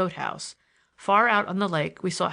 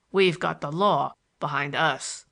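slow, lower smooth delivery; 4 semitones lower, slower than usual. A narrator's reading. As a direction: take it slowly and smoothly, pitched down. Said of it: "called the caretaker smoothly".

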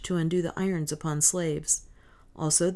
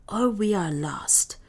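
urgent whisper, slowed; whispered warning; 3 semitones higher than usual. Acted. Soa warns Peter to keep silent, whispered. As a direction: hiss it so no guard hears. Soa hushes the freed slave.

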